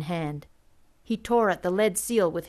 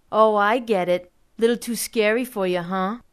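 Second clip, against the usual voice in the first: taunting; 6 dB louder than usual. A narrator's reading. Kid taunting narrator.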